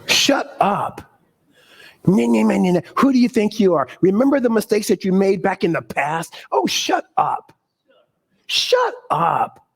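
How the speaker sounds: high, mocking whiny nah nah and shut up; mocking the inner voice. Preacher mocking his inner critic with a high shut up. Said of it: "that little voice that comes up".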